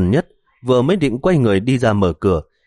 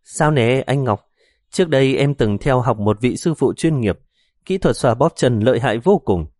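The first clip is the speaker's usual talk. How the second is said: put-on cutesy baby voice; 3 semitones higher than usual. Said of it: "vừa nói với giọng nũng nịu".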